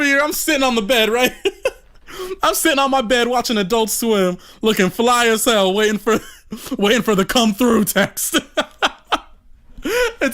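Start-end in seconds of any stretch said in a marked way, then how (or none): 1.9-8.5 laughing. Real, not acted. Laughing while telling.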